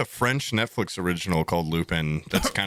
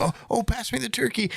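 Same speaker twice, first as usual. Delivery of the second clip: pretend eating; 11 semitones higher than usual. Acting out a meal to trick listeners, pretend eating. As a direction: play at being at dinner, pitched up. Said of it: "we should pretend to be eating".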